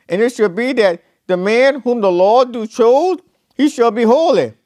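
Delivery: solemn, measured Bible reading; scripture reading. Acted. Preacher reading Numbers to the church, solemn scripture voice. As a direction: read it out like holy writ.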